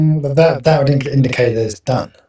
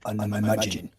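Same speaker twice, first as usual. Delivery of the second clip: pretend phone call; slower than usual.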